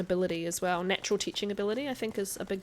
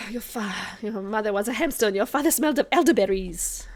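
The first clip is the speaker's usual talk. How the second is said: loud put-on taunting voice; mock comic taunt; 2 semitones higher, 7 dB louder than usual. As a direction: build into a loud, hammed-up insult. Acting out Monty Python insult.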